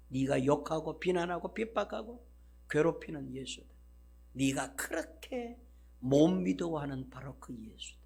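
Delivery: Jesus answers Saul quietly over music; gentle, tender answer. Acted. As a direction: speak it quietly like a patient reply.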